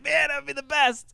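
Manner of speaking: put-on high, dreamy kid's wish; excited kid voice. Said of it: "being like".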